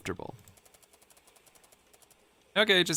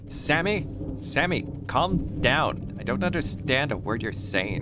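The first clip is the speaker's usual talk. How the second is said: higher-pitched acted friend voice; concerned friend Noah; 5 semitones higher than usual. Friend on the phone calms Sammy, concerned higher voice. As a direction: cut in to settle a panicking friend.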